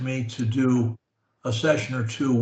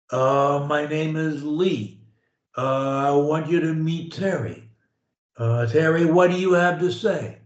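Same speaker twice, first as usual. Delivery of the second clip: tone before words. Shown as a demonstration. Coach introducing Terry, shows a hummed tone before words. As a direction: lead in with a hum, words linked on one tone. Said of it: "putting a little bit of a tone in front of my words".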